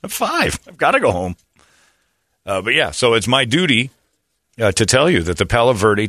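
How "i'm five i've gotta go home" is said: put-on high, whiny little kid; childish whine. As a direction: whine like a five-year-old.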